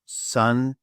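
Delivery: "Sanduits" slowly as san, du, its; syllable by syllable. Shown as a demonstration. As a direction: break "Sanduits" into separate drawn-out sounds. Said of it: "I will say it for you now".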